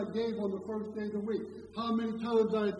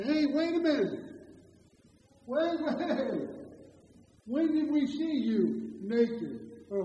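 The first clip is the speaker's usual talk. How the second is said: mock protest; 3 semitones higher, 6 dB louder, slower than usual. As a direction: act out their shocked denial to Jesus. Congregation protesting to Jesus.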